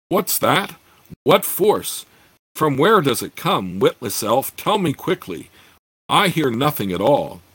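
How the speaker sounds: alarmed dwarf lord. Acted. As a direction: snap the questions at the elf. Startled dwarf lord demands answers.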